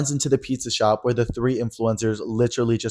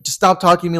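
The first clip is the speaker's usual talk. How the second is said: mock drunk snap; 7 semitones higher, 6 dB louder, faster than usual. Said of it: "spewing out".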